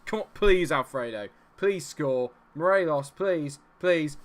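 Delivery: loud, high, urgent begging; desperate pleading. Real, not acted. Begging his players to score.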